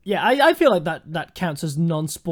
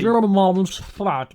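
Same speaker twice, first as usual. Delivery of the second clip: slow computer voice; much slower than usual. Retold or imitated. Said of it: "What were you gonna say?".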